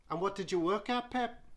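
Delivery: high, surprised Geordie judge voice; Cheryl, surprised. Acted. Judge quizzing the young contestant, high and surprised. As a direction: lift it up in disbelief, pet. Cheryl asks about his job.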